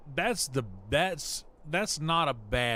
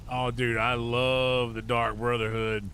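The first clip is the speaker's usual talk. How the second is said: excited; 4 dB louder than usual. Real, not acted. Gushes about favourite quest line.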